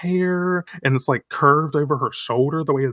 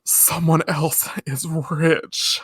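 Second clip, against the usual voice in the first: gasping mock shock; 4 semitones higher, slower than usual. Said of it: "she's like".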